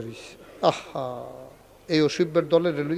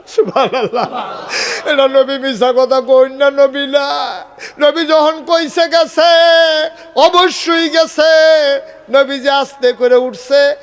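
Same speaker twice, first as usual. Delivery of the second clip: high, loud preaching cry of faith; শুধু কই না: high loud cry on কই, stretched নবী না; fervent shout; 10 semitones higher, 9 dB louder than usual. Acted. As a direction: belt it out with conviction. Preacher bursts into loud fervour.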